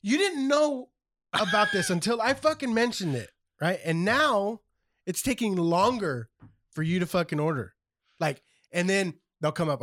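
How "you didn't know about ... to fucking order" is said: halting, higher-pitched complaint; exasperated, drawing out the wait; retold frustration. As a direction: spell out the grievance piece by piece. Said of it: "getting fucking really frustrated".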